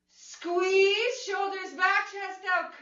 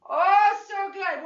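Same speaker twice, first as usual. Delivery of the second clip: delighted exclamation; 4 semitones higher, 8 dB louder, slower than usual. Real, not acted. Instructor delighted at the effort.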